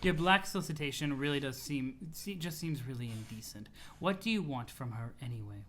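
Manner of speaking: low, restrained character voice; composed, formal troll. Acted. Troll asking what CA wants from her, cool and composed.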